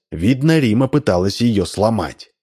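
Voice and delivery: usual speaking voice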